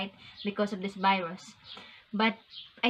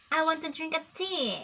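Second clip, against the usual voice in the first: higher-pitched imitation British accent; attempted British accent; 5 semitones higher, 3 dB quieter than usual. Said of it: "in British accent".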